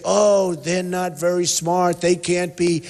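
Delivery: voicing puzzled frustration at politicians; a hint of a bewildered voter; mock exasperation. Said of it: "that you say".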